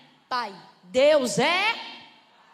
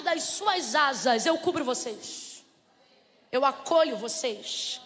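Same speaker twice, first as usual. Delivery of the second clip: tender; slower than usual. Acted. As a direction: wrap them in comfort. Deus acolhe como galinha. (ternura lenta e suave)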